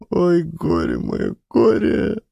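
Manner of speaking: high, slow wailing grief; sobbing lament. A narrator's reading. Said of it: "рыдала Маришка".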